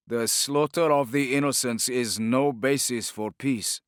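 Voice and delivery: a proud ruler's cold retort; hawkish sultan. Acted. Sultan rebuking Torquemada, lightly voiced, hawkish. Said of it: "The hawkish answer".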